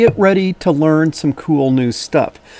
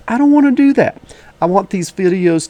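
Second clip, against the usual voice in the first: emphatic; 4 semitones higher than usual. Real, not acted. Insists videos stay free.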